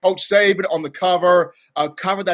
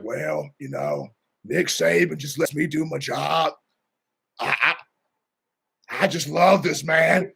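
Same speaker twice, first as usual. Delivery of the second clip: Scott Cochran impression. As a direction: play it humble and easygoing. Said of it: "pretty good impersonation".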